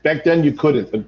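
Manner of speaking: low, halting, choked-up apology; subdued and tender; sentimental. Acted. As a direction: get a little sentimental, voice dropping. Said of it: "I didn't mean to get so sentimental".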